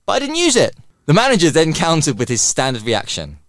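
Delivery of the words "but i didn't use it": put-on old lady voice. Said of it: "the older lady would just answer".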